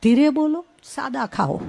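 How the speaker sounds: hushed mock-serene sermon voice; mimicking a Brahmakumari. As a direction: gently admonish like a serene spiritual teacher. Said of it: "એવા બ્રહ્માકુમારી આવે".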